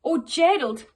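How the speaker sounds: loud scoffing put-down; scornful jeer. Acted. Animals scoffing at Gerald, loud scornful jeer. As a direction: dismiss him with a sneer. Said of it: "the animals all laughed".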